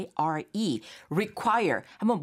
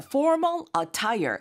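slow model phrase; 6 semitones higher, much slower than usual. Shown as a demonstration. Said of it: "teacher models the phrase".

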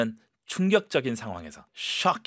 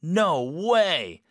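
strong shocked no way; 5 semitones higher, 4 dB louder than usual. Shown as a demonstration. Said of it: "스트롱하게".

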